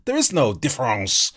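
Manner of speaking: put-on loud French-accented correction; mock French accent. Mocks the French in reply.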